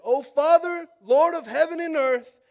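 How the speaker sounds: high, loud, slow cry to the Father; Jesus rejoicing, praying loudly to the Father; loud joyful prayer. Acted. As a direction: lift it up, full of joy. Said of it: "And he said".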